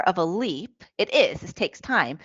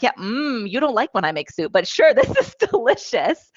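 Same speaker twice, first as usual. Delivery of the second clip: laughing; 5 semitones higher, 3 dB louder than usual. Retold or imitated. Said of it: "And I'm like".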